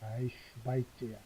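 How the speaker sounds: 슈바이츠야 said slowly like a mild swear; mock curse. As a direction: pretend to swear at someone, lightly. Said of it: "욕처럼 들리죠".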